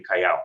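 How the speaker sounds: callao said with the d dropped, cai-ao. Shown as a demonstration. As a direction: say callao with no d sound. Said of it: "instead of saying callado, we'll say".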